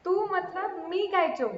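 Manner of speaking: तू मतलब मी काइचो, Malayalam words tried out haltingly; sounding out Malayalam; Malayalam attempt. Shown as a demonstration. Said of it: "one word only". (Malayalam शब्द बोलने की कोशिश)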